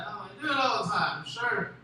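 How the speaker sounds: offhand mock admission; sarcastic agreement. Man going along with his date's claim, sarcastic. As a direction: concede it with dry sarcasm. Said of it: "I'm trying to be sarcastic".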